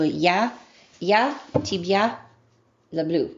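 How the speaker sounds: "Ya, tibia, le bleu" in separated learner chunks; butchered Russian. Shown as a demonstration. Beginner trying "I love you" in Russian, butchered "Ya, tibia, le bleu". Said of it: "Now I'm butchering it".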